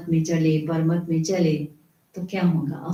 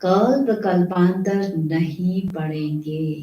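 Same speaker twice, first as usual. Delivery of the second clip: कल्प drawn out, each word spaced; the preacher slows to press the warning home; slow, weighty warning; slower than usual. Shown as a demonstration. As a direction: spell it out slowly like a stern warning. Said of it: "repeated for emphasis".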